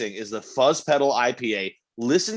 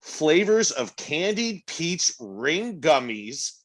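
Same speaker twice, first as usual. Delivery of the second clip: tasting note read; 2 semitones higher than usual. Acted. Reading beer description aloud.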